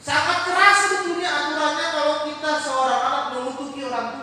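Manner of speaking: loud, high, driving sermon; fiery preaching. Real, not acted. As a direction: preach it with full force. Preaching at full force.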